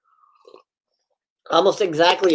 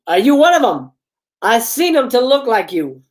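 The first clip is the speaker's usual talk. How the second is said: shouting man; 5 semitones higher than usual. Acted. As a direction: yell it like a hulking stranger. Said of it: "the man shouts again".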